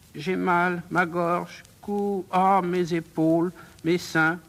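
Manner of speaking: spellbound pupil faintly moaning of pain; mildly ailing, entranced complaint; languorous, sickly. Acted. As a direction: let the aches out languidly. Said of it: "maladive, langoureuse, envoûtée".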